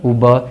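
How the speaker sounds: Uber as oo-ba; brand name pronounced. Shown as a demonstration. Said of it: "इसको Uber नहीं पढ़ना".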